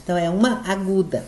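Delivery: usual speaking voice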